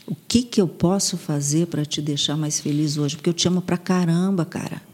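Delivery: gentle, affectionate encouragement; tender self-talk. Shown as a demonstration. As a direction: talk to yourself like a loving friend. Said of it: "você vai olhar pra você e vai falar".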